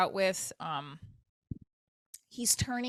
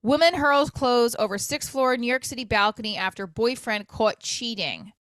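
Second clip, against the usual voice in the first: headline read; 2 semitones higher, 6 dB louder than usual. Shown as a demonstration. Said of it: "there was an article".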